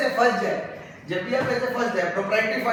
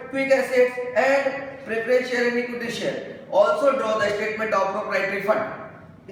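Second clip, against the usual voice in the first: raised-pitch exam question read-out; reading question aloud; 4 semitones higher, much slower than usual. Real, not acted. Accounts teacher reading the ratio question to students, read-aloud style. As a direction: read out each listed item distinctly. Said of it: "मैं question read करता हूँ".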